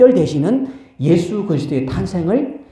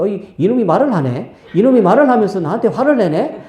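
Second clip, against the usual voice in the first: higher, indignant outburst at a talking donkey; Balaam's anger; 5 semitones higher than usual. Acted. Balaam yelling at his donkey, angry. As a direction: play him startled and offended. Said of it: "발람이 화를 내는 거예요".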